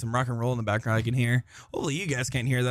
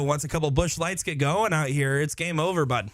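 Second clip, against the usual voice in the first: lightly put-on Wisconsin Midwest accent; a hint of Wisconsin Midwest twang on it. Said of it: "I'm trying to work on my Wisconsin Midwest accent".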